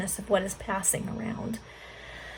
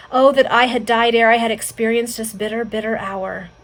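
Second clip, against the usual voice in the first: agonized lament starting loud, then sinking; intense agony; 8 dB louder than usual. A narrator's reading. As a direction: cry out in understated agony. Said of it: "uttered in a tone of such intense agony".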